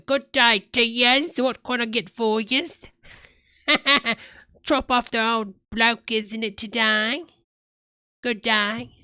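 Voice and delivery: playful fake Cockney accent. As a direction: put on a cheeky Cockney accent. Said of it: "like, a Cockney accent or something".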